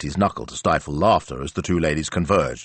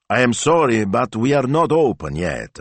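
higher, emphatic courtesy; raised-pitch Italian butcher's apology; apologetic shop worker; 7 semitones higher, 4 dB louder than usual. A narrator's reading. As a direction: politely turn the customer away. Shop worker turns customer away.

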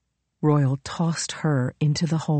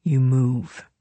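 low, menacing whisper; cold whisper; 4 semitones lower, 3 dB quieter than usual. A narrator's reading. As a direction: whisper the threat coldly. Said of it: "he said coldly".

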